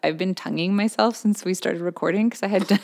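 drooly after dental work; lispy and drooly. Real, not acted. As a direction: numb mouth, a little lispy. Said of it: "I sound kind of lispy and drooly".

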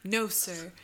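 insistent witness on the stand; Mary Heister. Acted. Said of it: "Anna Marie, Mary Heister".

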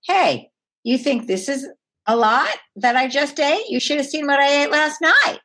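mock cheeky answer to the inner voice; joking comeback. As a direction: banter back at the critic with humor. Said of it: "do you say".

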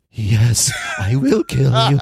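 lightly voiced action hero; a hint of a deadpan muscleman; half-hearted Arnold voice; mock Matrix. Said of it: "And Matrix is like".

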